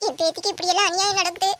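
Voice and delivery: put-on wailing, rising at the end; mock lament. Grandmother goading her grandson into action, mock wailing. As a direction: wail theatrically over the injustice.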